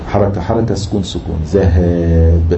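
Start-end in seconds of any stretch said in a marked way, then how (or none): 1.5-2.5 "ذهاب" drawn out slowly, long aa closed on vowelless b; double sukun ending. Shown as a demonstration. Teacher demonstrating two final sukuns, "ذهاب" stretched and closed on b. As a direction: hold the aa of "ذهاب", then close on b. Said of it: "الألف سكون والباء سكون".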